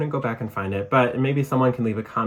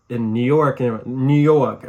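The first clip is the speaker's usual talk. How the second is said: New York accent; 5 dB louder, slower than usual. Shown as a demonstration. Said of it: "a classic New York accent".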